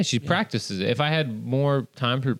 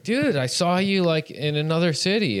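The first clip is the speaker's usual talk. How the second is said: mildly hammed-up eager recognition; excited fan; 6 semitones higher than usual. Fan spotting the comic at the door, excited. Acting out a fan greeting him.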